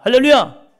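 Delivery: high, loud ringing cry of praise; loud hallelujah. Real, not acted. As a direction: lift the congregation with it. Preacher exclaims to congregation. (힘찬 할렐루야 외침)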